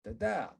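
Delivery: daDA, second syllable strong; weak-strong syllable drill; stress demo. Shown as a demonstration. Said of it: "a two syllable word like this".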